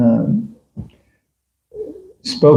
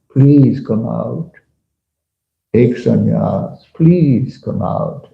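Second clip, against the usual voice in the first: imitating a pleading guru; much slower than usual. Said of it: "he's imitating his Guru Maharaj".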